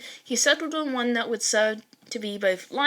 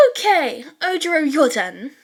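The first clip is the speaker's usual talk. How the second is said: loud, high call to Ojiro; shouted; 5 semitones higher, 6 dB louder than usual. Acted. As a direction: shout it across the room to break the tension. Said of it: "Ashido shouted".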